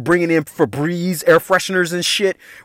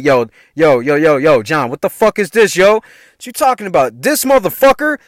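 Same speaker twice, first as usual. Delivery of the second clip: acted-out outburst, climbing higher; retold snapping; 6 semitones higher, 3 dB louder than usual. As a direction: build from firm to high-pitched indignation. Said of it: "I was snapping on motherfuckers".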